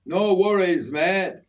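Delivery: put-on a Yorkshire lad trying out an Australian accent; a learner's attempt at Australian; newfound Aussie accent. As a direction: try on the Aussie twang for the first time. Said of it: "testing out my newfound Aussie accent".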